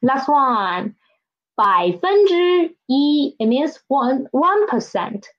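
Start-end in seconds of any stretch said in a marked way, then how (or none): 1.6-3.3 slow 百分之一 with 一 held level; first-tone yi. Shown as a demonstration. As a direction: model 百分之一 slowly, 一 in first tone. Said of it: "It still won't change".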